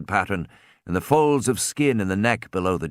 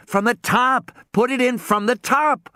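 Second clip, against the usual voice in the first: urgent instruction; 12 semitones higher than usual. A narrator's reading.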